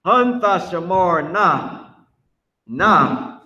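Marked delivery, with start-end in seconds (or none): 0.1-1.9 "Hun, Thashamarna" drawn out, higher on Hun; pronunciation demo. Shown as a demonstration. Teacher modelling the Hebrew for students, slow "Hun, Thashamarna". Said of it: "That's how you say".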